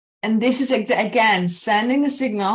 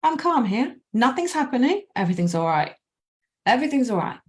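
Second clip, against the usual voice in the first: lightly higher soothing no-no-no; reassuring inner voice; 3 semitones higher, faster than usual. Retold or imitated. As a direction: gently hush your own worry. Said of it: "this is sending a signal".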